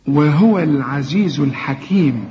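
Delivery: slow melodic recitation of وهو العزيز الحكيم; tajweed recitation; Quran recitation. Shown as a demonstration. Recites the verse.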